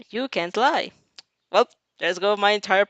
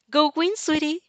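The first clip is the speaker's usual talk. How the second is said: cheerful mother's shout, higher; 7 semitones higher than usual. Acted. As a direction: call out to your child proudly. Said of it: "Mother shouts".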